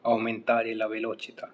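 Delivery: slow model sentence. Shown as a demonstration. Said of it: "जैसे कि speed बढ़ाओ".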